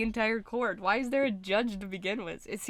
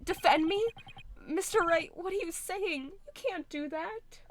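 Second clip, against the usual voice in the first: higher, astonished disbelief; shocked boy; 8 semitones higher than usual. Acted. Boy stunned that Wright will defend him, higher. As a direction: gasp it out in disbelief.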